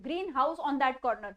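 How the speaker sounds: green house as two words, stress on house; separate words. Shown as a demonstration. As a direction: keep green and house apart, lean on house. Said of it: "अलग अलग करके separate करके बोल रही हूँ". (green house अलग अलग बोलना)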